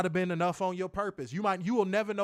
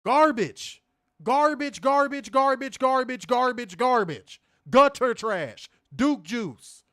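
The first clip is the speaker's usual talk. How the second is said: repeated louder hammering of Garbage; angry rant; 3 semitones higher, 4 dB louder, slower than usual. Real, not acted. Host trashing the show, loud repeated disgust. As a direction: pound the word over and over in disgust. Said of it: "I have not had a rant in a minute".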